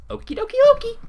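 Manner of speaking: very high, bubbly squeak; Pinkie Pie voice. Acted. Pinkie Pie chirping at Twilight in a very high squeak. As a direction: bounce it out like a hyper pony.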